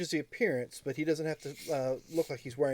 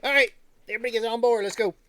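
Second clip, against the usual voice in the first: calling out; 7 semitones higher, 6 dB louder, faster than usual. Acted. NPC calls everyone aboard.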